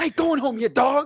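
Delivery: very high, shrill, triumphant put-on scream. Retelling an awkward white guy screaming around the arena, imitating a man screaming. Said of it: "Just scream like that".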